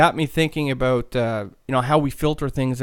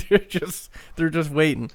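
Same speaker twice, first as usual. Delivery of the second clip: higher, laughing through the words; 3 semitones higher than usual. Real, not acted. Host tells listeners they are waiting for the laugh, laughing. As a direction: let a laugh break into the line. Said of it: "waiting for me to laugh".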